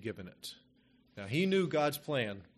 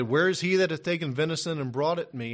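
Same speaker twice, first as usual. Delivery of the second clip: raised, louder, urgent question; trembling outcry; 4 semitones higher, 7 dB louder than usual. Acted. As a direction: cry it out as the shaken old father. Isaac trembling, reads his outcry.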